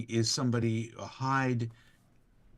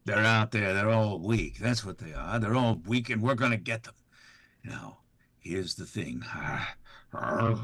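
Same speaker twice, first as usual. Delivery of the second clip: a hint of a gang leader rallying; raider opportunist. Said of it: "Raider opportunist".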